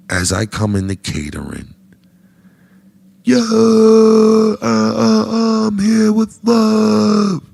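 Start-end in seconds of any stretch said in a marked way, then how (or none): 3.2-7.4 high, stretched-out booming greeting; loud noise intro. Retold or imitated. Walking into catering again, loud drawn-out intro. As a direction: announce yourself big and slow. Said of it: "When I do the loud noise".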